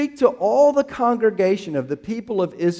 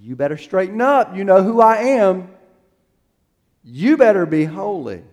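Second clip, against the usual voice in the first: condemning; 3 semitones higher, 5 dB louder than usual. Shown as a demonstration. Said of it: "it sounds condemning".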